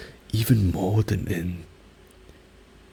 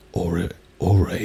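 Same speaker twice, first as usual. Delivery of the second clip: louder Japanese with an English accent; 2 semitones lower, 5 dB louder than usual. Shown as a demonstration. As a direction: say "Ore, ore" as an English speaker would. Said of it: "an English accent and speak Japanese".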